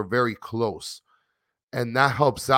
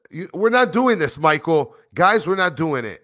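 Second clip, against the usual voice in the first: mock exasperated; 5 semitones higher, 5 dB louder than usual. Real, not acted. Refusing chat's Spanish lesson.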